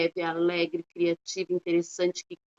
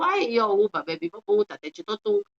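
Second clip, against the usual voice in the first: nonsense syllables. Shown as a demonstration. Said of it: "Eu não chego pras pessoas e digo".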